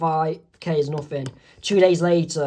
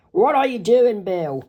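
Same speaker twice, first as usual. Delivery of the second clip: Dipper's voice; 4 semitones higher, 3 dB louder than usual. Acted. Dipper questions Bill in story.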